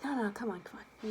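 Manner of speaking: urgent hushed coaxing; dad whispering to his scared daughter; whispered coaxing. Retold or imitated. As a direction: whisper it to calm her.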